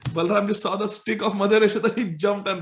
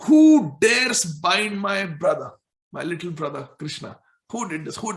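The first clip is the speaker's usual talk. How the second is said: angry Balram. Acted. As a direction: draw out each word in outrage. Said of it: "got angry".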